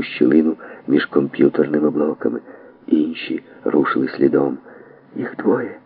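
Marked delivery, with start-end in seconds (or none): 5.2-5.8 soft alarmed whisper. Acted. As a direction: breathe it out so no one hears. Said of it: "прошепотіла Трілян".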